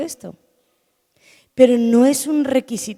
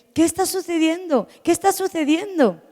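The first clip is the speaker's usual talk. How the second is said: higher-pitched, urgent questioning; mildly uneasy; 8 semitones higher than usual. Retold or imitated. Preacher voices the blind man wondering what passes, uneasy. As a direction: ask it anxiously, pitched up, at normal volume. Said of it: "comenzó a inquietarse y a decir".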